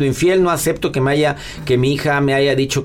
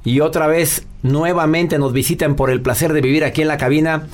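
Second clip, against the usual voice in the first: host introduction. Acted. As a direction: build up the guest like a radio host. Presenta a la invitada. (presentación lenta de locutor para la invitada)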